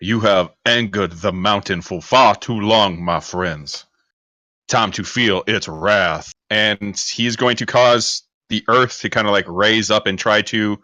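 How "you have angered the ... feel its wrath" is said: wrathful mountain mage. Acted. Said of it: "He's gonna turn to Fire Team one and say".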